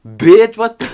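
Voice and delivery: high, loud mock-indignant outburst; mock outrage. Vlogger calling out absent family on day off, mock outrage. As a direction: burst out high in playful outrage. Complains everyone is out without her.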